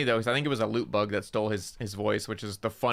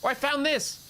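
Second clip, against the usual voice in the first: creepy lure voice; 13 semitones higher than usual. Retold or imitated. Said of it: "it'll be like".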